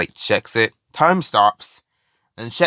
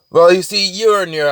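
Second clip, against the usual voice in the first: higher-pitched, hedging character voice; pitched-up, tentative lead-in to a pitch; stalling explanation; 8 semitones higher, 4 dB louder than usual. Retold or imitated. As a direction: lightly act out someone stalling. Messenger explains himself at gunpoint.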